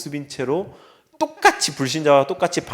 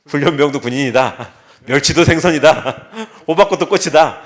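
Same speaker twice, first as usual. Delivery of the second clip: loud, laughing battle cry; rallying shout; 7 dB louder than usual. Pretend. Preacher rallying the congregation, louder with laughter. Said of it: "이렇게 외쳐야 됩니다".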